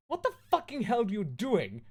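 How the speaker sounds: overacted rage at a knock; furious goth yelling at Lupin; shouting angrily. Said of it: "I shouted angrily".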